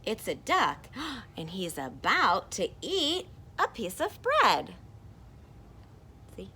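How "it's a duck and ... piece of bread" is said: excited character. Acted. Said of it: "This person said".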